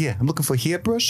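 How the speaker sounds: high put-on Australian accent; hammed-up Australian accent. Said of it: "you're doing an Australian accent".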